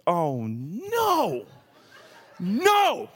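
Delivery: drawn-out, high wail of no; hammed-up despair; mock dismay. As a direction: groan it out, then leap high in protest. Retold dismay at storm delay.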